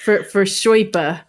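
"shoipa" for Sherpa, "er" turned to "oy"; imitated missing R. Host copying the child's speech, "shoipa" for Sherpa.

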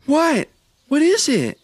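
calling out. A narrator's reading. Ivy calls to Levi, high and eager. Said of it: "Ivy called out".

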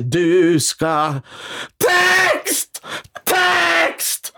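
hammed-up high yell; mock offstage panic shout; high shout of Text. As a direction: burst out high for the line. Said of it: "Jag går in sakta och säger".

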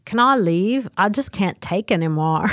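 put-on half-hearted Scandinavian or Dutch accent, slightly Southern; foreign accent attempt. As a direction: imitate a departing European's accent, badly. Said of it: "I can't do accents, but he was like".

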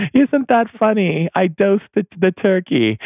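gleeful mock voice. Shaman mocking the family's belief about the turkey, gleeful. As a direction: tease like a kid keeping a secret. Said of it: "and just go".

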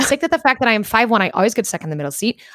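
mock-indignant airing of a long-held grievance; retold angry outburst. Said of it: "I don't know why you're so angry".

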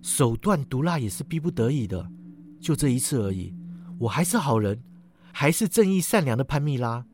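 软语安抚; soft-spoken. Acted. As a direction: soothe the upset friend. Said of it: "软语说道".

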